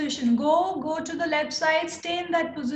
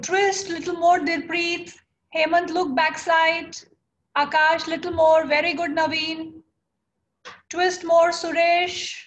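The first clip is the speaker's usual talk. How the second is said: louder encouraging calls across the room; calling out to class; 4 dB louder than usual. Real, not acted. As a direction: urge each student on by name. Coach calling out to students.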